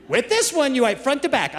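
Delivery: put-on high, emphatic child repeating the rule; a kid drilling the lesson into Dad; insistent kid.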